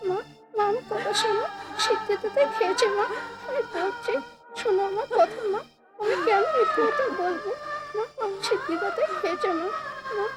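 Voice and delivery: soft, broken crying plea; weeping. Acted. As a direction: sob it out quietly. Child crying to mother.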